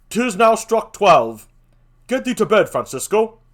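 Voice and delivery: called out. Acted. Guard relieving watch, calls out.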